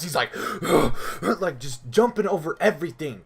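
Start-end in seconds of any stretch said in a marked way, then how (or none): 0.4-1.2 running gasps. Retold or imitated. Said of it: "this dude is still hauling ass".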